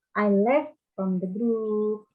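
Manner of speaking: slow model reading, "left" with clear E; drawn-out, careful "left"; contrasting "left". Shown as a demonstration. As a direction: say "left" slowly with an open E. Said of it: "hati-hati dalam pengucapan".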